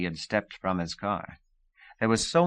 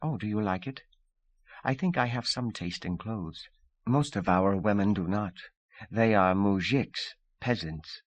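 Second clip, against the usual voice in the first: relaxed and smiling. Acted. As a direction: smile through it, a little proud. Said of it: "relaxed and smiling".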